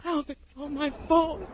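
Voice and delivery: tearful. Acted. Tearful confession.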